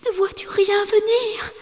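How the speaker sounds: high urgent whisper; wife whispering in fear; whispered call. A narrator's reading. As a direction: breathe the question.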